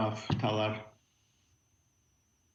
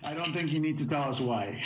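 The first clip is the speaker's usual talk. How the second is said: chuckling through the words; amused, laughing while speaking; 5 semitones higher than usual. Real, not acted. Joking about a bathroom break.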